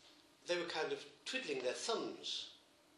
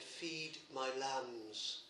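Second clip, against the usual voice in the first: slow tender command; 5 dB quieter, much slower than usual. Acted. Christ's words to Peter, slowed.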